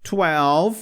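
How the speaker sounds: twelve with the W like a U, tuélv; English twelve. Shown as a demonstration. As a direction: say twelve sounding the W as a U. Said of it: "Lembra que o W tem um som meio de U". (twelve com o W soando como U)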